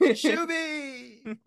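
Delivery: high Sim squeal; Simlish word. Pretend. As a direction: chirp it like a Sim.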